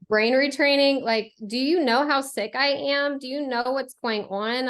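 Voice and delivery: mock the idea like it's absurd; exasperated sarcastic retort; scoffing disbelief. Mocking the doctor's brain retraining idea.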